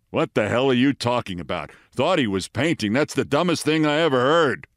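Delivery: scornful Matthau-style retort; resentful sneer. Retold or imitated. Matthau to Norman over his joke, resentful sneer. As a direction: grumble it with sneering disbelief. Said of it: "into a resentful sneer".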